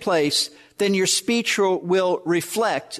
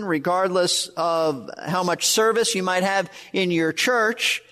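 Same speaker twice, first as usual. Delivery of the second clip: usual speaking voice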